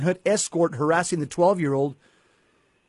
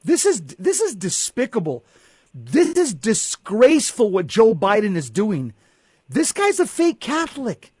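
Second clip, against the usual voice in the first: outraged; 4 semitones higher than usual. Real, not acted. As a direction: denounce it with real outrage. Condemning the president's raid.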